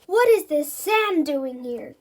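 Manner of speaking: loud, slow monster growl. Acted. Monster growling at sand on the ground. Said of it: "growls the monster".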